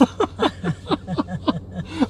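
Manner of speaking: high peal of laughter; real laugh. Real, not acted. Laughing after his own punchline, high real laugh. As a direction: break into a high-pitched laugh.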